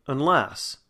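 unstressed start of "unless", weight on the end; stress on second syllable. Shown as a demonstration. Teacher giving another example, "unless" stressed on second syllable. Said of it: "again, the second part".

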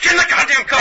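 high, loud panicked yell; screaming at a friend to get in now; frantic yelling. Retold or imitated. Retelling a getaway, yelling at friend to get in the car.

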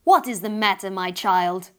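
a mother's voice booming from above. Acted. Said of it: "a voice boom down the chimney".

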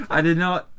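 put-on failing South African accent; bad South African accent. Retrying the email line, bad South African accent. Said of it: "This is terrible South African accent".

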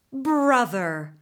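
a milder whinnying reply; whinnied back. Acted. Taltos horse whinnies back to his brother, milder. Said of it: "the Taltos horse whinnied back".

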